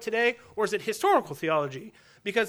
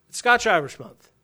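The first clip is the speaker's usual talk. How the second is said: Scotch-Irish Month declared louder, with a firm fall; emphatic mock proclamation; 6 dB louder than usual. Preacher pretends to declare a heritage month, loudly proclaiming. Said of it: "What would happen if I was like".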